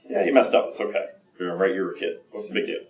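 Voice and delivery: soft, dropping, offhand reassurance; casual reassurance. Acted. Imagined people shrugging off a kid's mistake, soft reassurance. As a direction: brush it off gently and quietly. Voicing most people's easygoing response.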